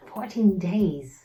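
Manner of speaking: slow, drawn-out repeat in dismay; slow, dismayed echo of the number; slow disbelief. Shown as a demonstration. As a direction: let it sink in slowly.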